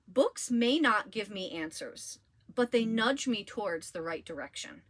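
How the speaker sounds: gentle, unhurried reading of a favorite line. Acted. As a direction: savour each word of the quote. Reads favorite quote.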